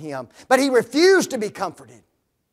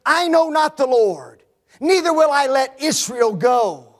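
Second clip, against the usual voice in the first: louder, higher defiant refusal; defiant Pharaoh; 4 semitones higher, 4 dB louder than usual. Retold or imitated. Pharaoh refusing Moses' demand, defiant. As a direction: refuse God's demand proudly. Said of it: "Pharaoh said".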